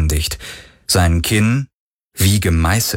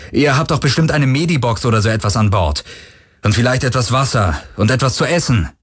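raised, earnest appeal; lifted pitch, imploring the rescuers; pleading survivors' leader; 5 semitones higher than usual. Acted. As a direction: ask urgently for help. Parker pleads for help.

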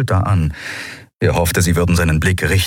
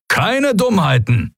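slow, higher stern command; stern warning; 12 semitones higher, slower than usual. A narrator's reading. Commander to the prisoners, slow stern warning. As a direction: lay down the law.

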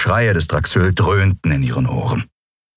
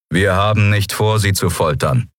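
urgent; 2 semitones higher than usual. Acted. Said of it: "sagte Telios eindringlich".

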